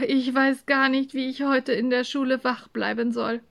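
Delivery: sleepy complaint; yawning, tired. Acted. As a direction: yawn into it and moan about the night. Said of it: "konnte schon wieder das Gähnen nicht unterdrücken".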